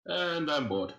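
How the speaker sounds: a hint of cold, flat boredom after laughing; stone serious. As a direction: suddenly drop into icy seriousness. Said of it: "stone, like, serious".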